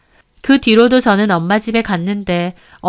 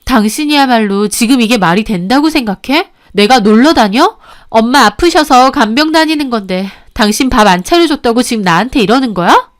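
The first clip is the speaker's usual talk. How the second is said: indignant wife arguing back, voice raised; 3 dB louder than usual. Acted. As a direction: fire back hurt, incredulous questions. Wife argues back at husband.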